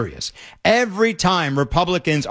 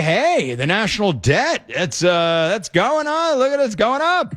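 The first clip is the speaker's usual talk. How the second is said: mock alarm, the voice climbing higher at the end; sarcastic imitation that rises into a higher pitch; mocking Democrats; 3 semitones higher than usual. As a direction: parody an opponent who is suddenly worried about debt. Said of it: "they say".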